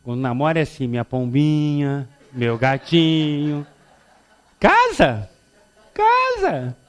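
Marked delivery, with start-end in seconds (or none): 0.9-3.7 slow, syrupy lovers' pet names; mock sweet talk. Imitando casal de namorados. 4.6-6.8 loud, rising high shout; mock outburst. Depois do casamento, explosão.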